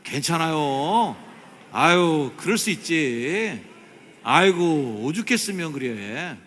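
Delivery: loud, high, drawn-out sympathy; hearty reassurance. Shown as a demonstration. Preacher leading congregation's three-phrase drill, loud drawn-out sympathy. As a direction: stretch each comforting phrase out loudly. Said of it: "시작".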